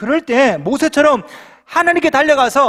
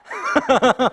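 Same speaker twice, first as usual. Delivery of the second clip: a brief chuckle at his own joke; short laugh; 4 semitones higher than usual. Real, not acted. Pastor laughing at his own joke, a short chuckle. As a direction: let a little laugh slip out.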